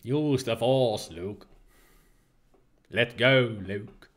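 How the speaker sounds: put-on slow, soft Obi-Wan Kenobi in a light Liverpool accent; a hint of Liverpool in a slow ghostly Obi-Wan. Gamer voicing the Force ghost, slow and soft Liverpool accent. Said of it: "I'm suddenly turning Liverpool".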